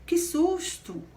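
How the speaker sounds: high, slow cry of fright; teacher demonstrating an exclamation with a high, slow startled cry. Shown as a demonstration. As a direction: act out a sudden scare. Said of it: "vem marcada pelo ponto de exclamação".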